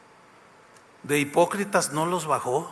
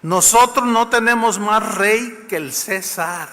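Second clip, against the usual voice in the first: slow, lightly voiced haughty priests; a hint of smug priestly defiance; chief priests; 4 semitones higher, 3 dB louder, slower than usual. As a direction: priests answering Pilate, mildly haughty and slow. Chief priests answering Pilate.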